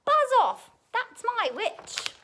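high, loud monster shriek; terrible beast. A narrator's reading. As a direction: warn the dragon off with a beastly yell. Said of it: "its terrible voice".

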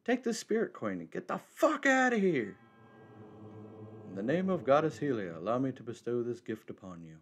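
a hint of a solemn old monk. Voicing the old monk NPC.

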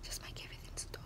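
barely voiced, quick and very soft; hushed. Girl recalling wanting everything to stop, hushed. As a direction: let it slip out almost under the breath. Monologue, wish to end it.

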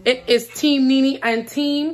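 slow, loud team call; drawn-out announcement. Real, not acted. Sister slowly announces teams to tease the other. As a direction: stretch it out to tease.

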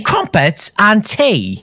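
slow posh drawl with falling end on "tea"; mock British accent. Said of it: "Keep saying that".

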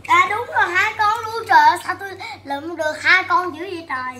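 delighted disbelief at a double find; surprised. Real, not acted. Child surprised by twin toys.

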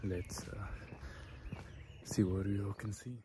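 hushed early-morning whisper. Real, not acted. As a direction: whisper so as not to wake anyone.

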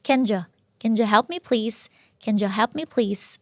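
"can you" as kin-juh; linked J sound. Shown as a demonstration. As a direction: reduce you to an unstressed juh after can. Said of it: "เป็นเสียง j เข้ามา". (can you เชื่อมเป็น แคนเจอะ)

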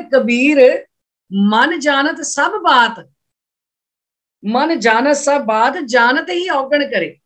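scripture quoted slowly, phrase by phrase; measured, unhurried recital with pauses; slow verse recitation. Shown as a demonstration. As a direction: draw out each part of the verse.

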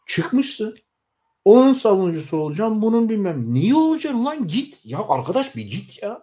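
a fed-up supporter yelling at his party leader, furious; furious shout. Real, not acted. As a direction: explode at him, voice cracking upward.

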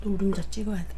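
노른자 murmured very softly with a falling tune; whispered self-talk. Real, not acted. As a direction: hush it, focused on the yolk.

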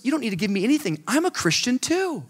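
high grandmotherly voice; imitated sweet old woman; little grandmother. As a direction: reassure him like an old lady, stretching the end. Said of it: "She goes".

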